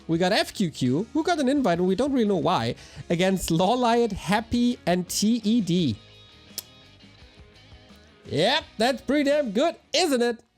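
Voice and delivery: normal talking voice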